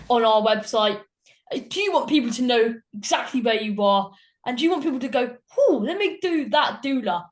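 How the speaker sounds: upbeat hard sell ad voice; advertising voice. Pretend. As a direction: pitch it like a radio ad. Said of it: "I wanna do my best advertising voice".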